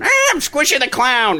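high, slow silly clown voice; Squishy the Clown. Retold or imitated. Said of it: "and also Squishy the Clown".

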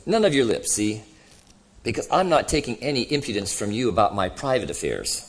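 lightly voiced grumbling ghost; a touch of self-righteous grievance in the voice; indignant ghost. Ghost defending his record to the other, mildly indignant.

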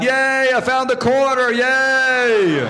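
high, drawn-out simpleton's cheer; idiot character voice. Acted. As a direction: celebrate like an overjoyed dimwit. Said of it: "how I came up with that character".

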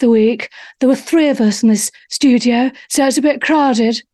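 a gentle hint of Diana's breathy charm; mild Diana impression, barely changed from own voice; Princess Diana impression. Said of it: "Can I do, do Diana?".

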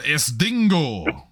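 drawn-out, very slow proud announcement; sudden exclamation. Shown as a demonstration. Host shows the crew how to blurt it out, slow and drawn out. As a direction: stretch out the exclamation slowly. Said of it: "fun to just exclaim out of nowhere".

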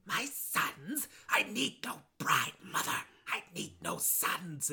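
soft, halting put-on villain son; son's voice. Son refusing a bride from his mother, hushed protest. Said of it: "He's like".

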